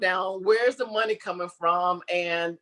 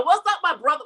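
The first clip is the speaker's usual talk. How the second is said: casual greeting; 6 semitones higher than usual. Retold or imitated. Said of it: "I felt like saying".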